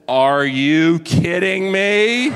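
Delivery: slow, laughing disbelief; wife's disbelief. Retold or imitated. Wife watching him lose the rod, laughing disbelief. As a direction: drag it out through a laugh. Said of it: "she looks down at me and says".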